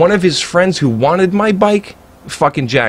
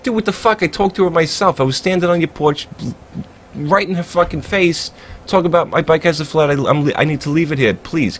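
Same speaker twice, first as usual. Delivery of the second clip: retold outrage; 4 semitones higher than usual. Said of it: "I'm like".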